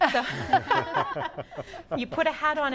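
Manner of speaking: laughing. Real, not acted. Laughs about the treasurer role.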